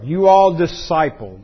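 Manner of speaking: "You all disciple" stretched slowly with ALL leaned on; slow, deliberate stress through "You all disciple"; emphasis on disciple as verb. Shown as a demonstration. Preacher repeating the verb so listeners get it, emphatic. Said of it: "emphasizing that".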